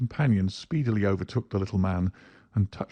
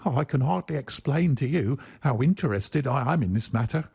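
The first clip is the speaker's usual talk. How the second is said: eager; 5 semitones higher than usual. Acted. Little man eager to Holmes.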